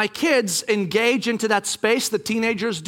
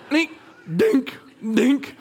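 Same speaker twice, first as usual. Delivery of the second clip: imitated dink noise; 4 semitones higher, much slower than usual. Imitates small knocking noise.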